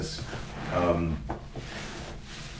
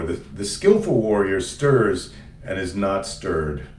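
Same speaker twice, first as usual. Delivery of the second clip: solemn reading; slower than usual. Shown as a demonstration. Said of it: "I'm gonna read".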